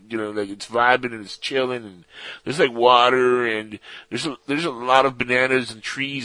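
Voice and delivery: lightly voiced stoner surfer. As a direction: play a mellow pothead alien. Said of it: "Maybe not with that exact surfer voice".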